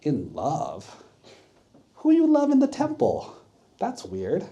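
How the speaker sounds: incredulous, can't believe it; shocked disbelief. Retold or imitated.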